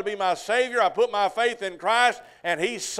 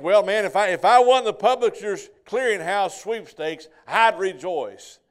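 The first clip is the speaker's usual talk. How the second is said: louder, slowed-down daydream; dreamy wishing; 5 dB louder than usual. Retold or imitated. Listener imagining a sweepstakes win, slow dreamy wish. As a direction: savour the fantasy of winning.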